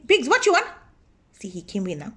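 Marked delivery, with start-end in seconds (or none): 0.0-0.7 calling out. Real, not acted. Calling to husband entering room.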